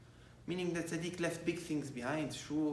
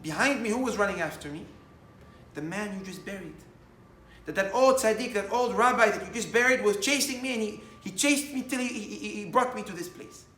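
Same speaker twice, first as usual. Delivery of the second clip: excited telling; 6 semitones higher, 9 dB louder than usual. Retold or imitated. Thief tells of tzaddik chasing him.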